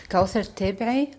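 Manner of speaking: her name Kauthar Tebrey said the Arabic way, not Germanised; Arabic pronunciation. Shown as a demonstration. Introducing herself on the radio, says her name the Arabic way. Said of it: "auf Arabisch ausgesprochen".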